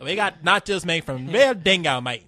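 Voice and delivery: slow, laughing Aussie imitation; Australian accent. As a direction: stretch it out in a put-on Australian drawl. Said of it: "I'm doing an Australian accent".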